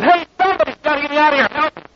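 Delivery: frantic high-pitched cry as the lion closes in; urgent panic. Acted. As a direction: beg the crowd to get you out, rushing. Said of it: "he's even more urgent about it".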